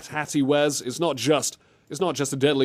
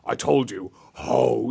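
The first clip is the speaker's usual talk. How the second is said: gruff imitation; slower than usual. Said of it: "acting means you talk like this".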